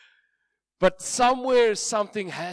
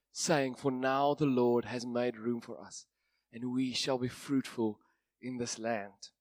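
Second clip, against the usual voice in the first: measured Bible reading to a congregation; scripture reading; 3 dB louder than usual. Acted. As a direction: read the passage with weight. Reads Genesis passage aloud.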